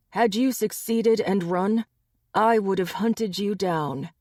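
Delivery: a hint of a dangerous alpha; menacing alpha. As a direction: promise the hunt. Gabe threatens Gary.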